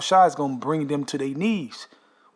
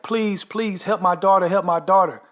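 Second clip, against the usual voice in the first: imitated begging; 4 semitones higher than usual. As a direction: beg for the daughter, mimicking the wife. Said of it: "she's begging".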